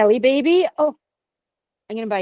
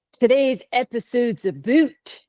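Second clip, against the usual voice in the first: mock Canadian "a boot"; lightly put-on Canadian accent, slow; slower than usual. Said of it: "Was that a good Canadian accent?".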